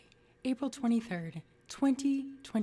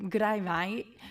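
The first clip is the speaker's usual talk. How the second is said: a bad Australian accent on good day mate; hammed-up Aussie greeting, good day mate; mock Australian twang for the viewers; 5 dB louder than usual. Shown as a demonstration. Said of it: "really bad Aussie accent".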